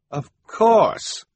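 high, loud exclamation; man in sunglasses. Acted. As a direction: call it out high and emphatically.

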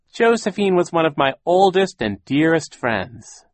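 high, loud put-on lament; mournful voice. A narrator's reading. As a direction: mourn a dear friend for show. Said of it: "began to speak in a mournful voice".

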